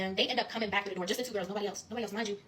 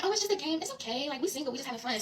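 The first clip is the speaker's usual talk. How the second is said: a light, giggly mock of the girls, pitched up; giggly quote; 4 semitones higher than usual. Mocking the tipsy girls who insist it's just a game, giggly. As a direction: brush it off with a giggle. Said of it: "So they giggling".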